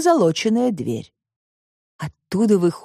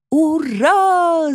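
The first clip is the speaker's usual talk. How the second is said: a higher, louder joyful cheer; townsfolk cheer; 9 semitones higher, 3 dB louder than usual. Acted. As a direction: shout hooray for the whole crowd. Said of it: "закричали обитатели пустынного города". (ликующий крик горожан)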